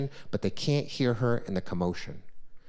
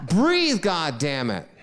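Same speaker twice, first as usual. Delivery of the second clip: the most desperate yell, then it gives out; harder mother yell; 4 semitones higher, 4 dB louder, slower than usual. Retold or imitated. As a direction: Breathe shouted very high and loud, then God damn it dropping back. Mother yelling again, harder.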